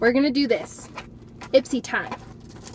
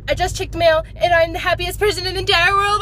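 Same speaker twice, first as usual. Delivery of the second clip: squealing high and fast; bursting with excitement; shrieking jackpot winner; 5 semitones higher, 4 dB louder, faster than usual. Real, not acted. First exclamation of joy.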